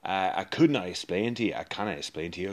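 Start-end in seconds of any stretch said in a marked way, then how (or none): 1.5-2.5 cannot rushed out, softer and fast; quick correction. Acted. Dwarf quietly correcting himself mid-sentence, fast and soft. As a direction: slip in the fix quickly under the breath. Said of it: "self-correction".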